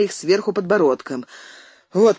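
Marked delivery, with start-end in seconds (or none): 1.9-2.2 пропыхтел. Acted. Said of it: "пропыхтел он".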